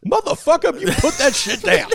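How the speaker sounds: channel the furious action star; Samuel L. Jackson. Retold or imitated. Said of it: "little children like Samuel L".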